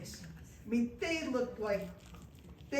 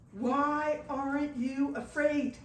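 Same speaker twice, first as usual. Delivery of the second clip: slow, louder mock shout; 3 semitones higher, 4 dB louder, much slower than usual. The armed boss cuts through the shouting with a slow mock shout. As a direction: call it out slowly over the crowd. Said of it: "shouted louder than everyone".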